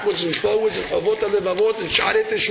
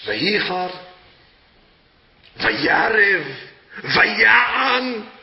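raised volume; 3 dB louder, much slower than usual. Shown as a demonstration. Rabbi demonstrating the Torah reading to listeners, louder. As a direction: punch each verb louder. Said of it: "I raise the volume".

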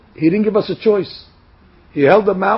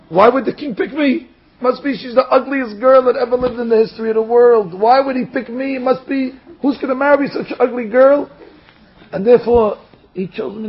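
high-pitched, worked-up complaint; mock crying lament; 4 semitones higher than usual. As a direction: wail mildly about being stuck, without real tears. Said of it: "and he's crying".

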